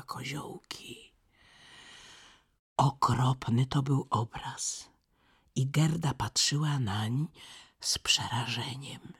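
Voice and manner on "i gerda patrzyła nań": ordinary delivery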